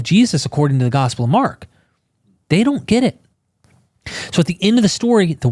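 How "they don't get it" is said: mocking sing-song. Mocking disciples again.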